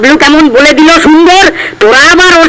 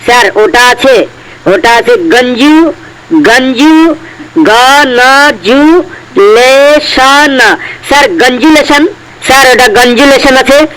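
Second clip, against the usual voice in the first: a lightly lowered, hesitant schoolboy voice; timid pupil; 3 semitones lower than usual. Acted. A nervous pupil answers the strict teacher, hesitant. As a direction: stumble nervously through the answer like a scared pupil.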